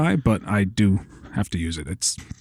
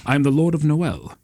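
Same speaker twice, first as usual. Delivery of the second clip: slow, pompous aristocrat; aristocratic lord; 3 semitones higher, slower than usual. Shown as a demonstration. Game master demonstrating rich people's voices, slow aristocratic lord. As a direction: draw out each word like a haughty lord. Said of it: "uh, uh, aristocratic fo".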